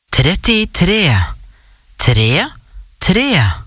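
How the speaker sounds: bingo caller. Real, not acted. Calls out bingo numbers.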